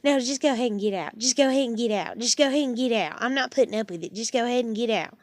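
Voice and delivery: imitating a huffy owner, a bit fast; mock-snippy repeated get out; hammed-up huffy landlord; huffy mock dismissal. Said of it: "get all huffy and puffy and be like".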